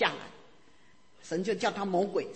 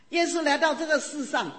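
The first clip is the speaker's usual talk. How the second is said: high and louder, laughing through the words; laughing with joy; 8 semitones higher, 6 dB louder than usual. Real, not acted. Preacher overjoyed telling the congregation about Jesus, laughing. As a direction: bubble over with real delight. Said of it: "我一讲耶稣就会热".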